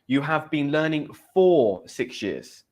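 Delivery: slow correction, leaning on "for"; stress on for. Shown as a demonstration. Teacher correcting a student's grammar, stress on "for". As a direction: draw out "for" to mark the correction.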